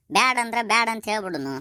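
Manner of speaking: insistent urging. Acted. Father urging worried son to decide. (ಒತ್ತಾಯದ ಏರುದನಿ)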